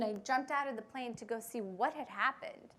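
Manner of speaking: ordinary delivery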